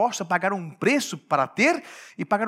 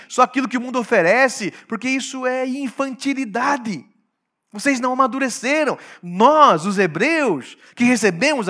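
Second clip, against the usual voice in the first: John preaching; 4 semitones higher, 9 dB louder than usual. Acted. John rebukes the Greeks for their eros, loud preaching. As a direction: thunder it at the Greeks like a prophet. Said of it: "o João está falando aqui para os gregos".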